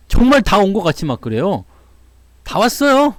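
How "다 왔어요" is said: mock hiker's promise. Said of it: "다 왔을 때 다 왔대".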